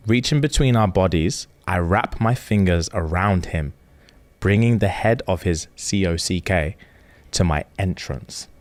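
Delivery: reading aloud. Shown as a demonstration. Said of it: "a little excerpt that I'm gonna read out".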